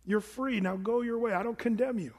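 gentle, freeing reassurance; warm release. Shown as a demonstration. Jesus releasing the woman from her sin, reassuring. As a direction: tell her she's free, kindly. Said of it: "It's almost like he's saying".

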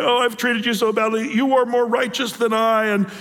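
lightly tearful Saul pleading; a touch of hammed-up remorse; understated sobbing apology; mock weeping. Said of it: "He's weeping".

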